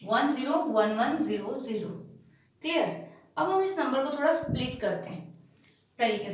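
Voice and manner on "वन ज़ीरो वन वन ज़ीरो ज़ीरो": "वन ज़ीरो वन वन ज़ीरो ज़ीरो" read as separate single digits. Shown as a demonstration. Teacher showing how a binary number is read, "वन ज़ीरो वन वन ज़ीरो ज़ीरो" digit by digit. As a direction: read out each digit of "वन ज़ीरो वन वन ज़ीरो ज़ीरो" by its own name. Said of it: "इसका पढ़ने का style यही है".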